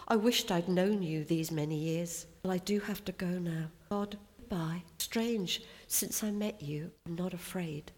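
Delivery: soldier's prayer read with feeling; poem reading. Acted. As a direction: read it like a young gunner talking to God. Reads soldier's poem aloud.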